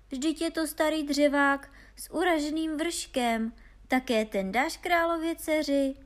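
high, loud mockery; incredulous storybook jeer; derisive exclamation. A narrator's reading. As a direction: scoff loudly at his silly find. Brothers deride Honza's worthless find.

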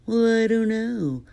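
puzzled character voice. Acted. Puzzled reply to the joke.

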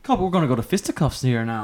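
mock Irish fighting talk; Irish accent. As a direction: answer in a put-on Irish brogue. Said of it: "now you do your accent".

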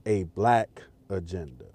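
"black" set apart by a pause before "agenda"; low, deliberate, weight on "black"; stress on BLACK. Shown as a demonstration. Podcaster correcting colorblind and POC agendas, stressing "black". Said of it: "Emphasis on black".

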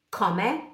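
komme com O curto e aberto. Shown as a demonstration. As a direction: diga komme abrindo bem o O. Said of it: "É um O aberto". (komme com “ó” aberto)

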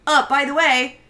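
lightly voiced stern boy, slow on the question; a hint of a snooty kid asking; Michael impression. Michael sternly asking Tommy about the horse, lightly voiced. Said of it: "That was a good impersonation".

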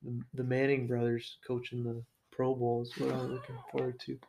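deadpan mock anticipation, softening at the end; straight-faced. Co-host feigns excitement for the Pro Bowl, deadpan. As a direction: say it dead serious, keeping a straight face. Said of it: "said it with a straight face".

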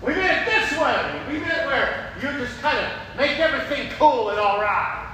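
begging for an easy fix; mock pleading; whiny pleader. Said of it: "continues the plea".

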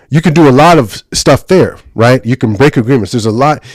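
loud, enthusiastic teaching; excited. Real, not acted. Teacher explaining the courts of heaven, getting excited. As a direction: get carried away explaining, voice up. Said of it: "I'm getting so excited".

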